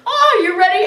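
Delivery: put-on high, loud party-girl greeting; brazen greeting. Grandmother swings round to her granddaughter, loudly exuberant. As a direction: burst out with showy cheer.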